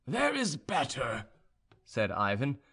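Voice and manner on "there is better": slow, higher-pitched certainty; perfectly sure. A narrator's reading. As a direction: state it slowly, completely sure. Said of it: "as if he was perfectly sure of it".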